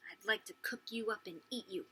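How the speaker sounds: soft, secretive murmur; whispered threat. Acted. Girl to hen behind sister's back, whispered threat. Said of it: "I whispered".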